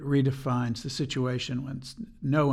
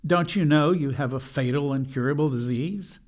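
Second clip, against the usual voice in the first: mildly raised, retelling the doctor's rebuke; 3 semitones higher, 4 dB louder than usual. Retold or imitated. Patient retelling the doctor's blunt warning, mildly raised voice. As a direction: press the doctor's words a little louder. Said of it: "The doctor said in a raised voice".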